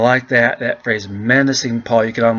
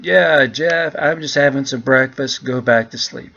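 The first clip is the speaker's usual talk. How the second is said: lightly voiced bear; 2 semitones higher than usual. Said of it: "I can just imagine the bear saying".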